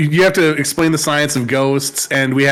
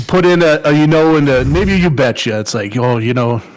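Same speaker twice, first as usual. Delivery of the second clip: Minnesota accent; 2 semitones lower than usual. Shown as a demonstration. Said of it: "good job at the Minnesota thing".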